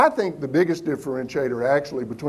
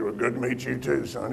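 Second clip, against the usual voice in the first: low, softer smoker's voice; lowered impression of a heavy smoker; Herb Kelleher; 6 semitones lower, 6 dB quieter than usual. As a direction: imitate an older smoker's low talk. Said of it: "He talks like this".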